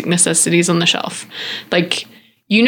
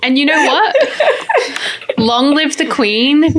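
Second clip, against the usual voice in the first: laughing; 6 semitones higher, slower than usual. Real, not acted. Joking about the monarchy.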